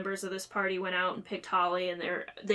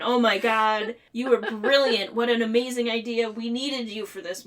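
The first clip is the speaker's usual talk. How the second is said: gushing; 5 dB louder than usual. Retold or imitated. Everyone gushing over Maurice's idea.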